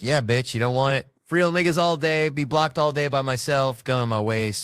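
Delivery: loud, high, boastful victory chant; celebrating. Retold or imitated. Comic celebrating his first punch, boastful. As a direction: crow over the win in a rhythmic chant. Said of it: "I celebrated".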